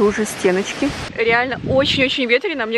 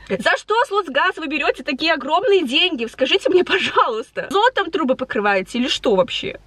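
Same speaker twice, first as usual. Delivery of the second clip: indignant; 5 semitones higher than usual. Real, not acted. Addresses gas company directly.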